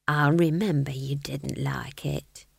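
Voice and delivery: slow, hushed whisper; whispered aside. A narrator's reading. Witch answering the fool's murmur, whispered. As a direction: whisper it slowly, confidentially.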